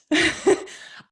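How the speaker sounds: a real laugh at herself; high, bright laugh. Real, not acted. Speaker laughs at herself while admitting guilt, high laugh. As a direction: laugh out high at your own habit. Laughs at her own confession.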